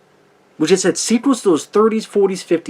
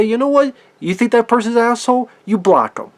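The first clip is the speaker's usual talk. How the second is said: high, brash mocking advice; 5 semitones higher than usual. To online haters, a brash high mocking voice. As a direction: toss it off like it's obvious. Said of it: "you just go fuck and say".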